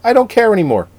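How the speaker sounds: high-pitched exasperated quote; mock giving up. Quoting co-host's tweet about the Oscars, mock-exasperated high voice. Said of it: "you said".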